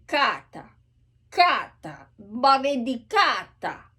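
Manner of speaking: kata with a K between C and G. Shown as a demonstration. Coach showing the K between C and G. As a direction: soften the K toward a G. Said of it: "a mix between a C and G".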